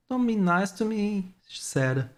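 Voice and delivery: put-on high, girlish voice close to tears; tearful girl. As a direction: plead through held-back tears. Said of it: "Her tears ... finally began to fall".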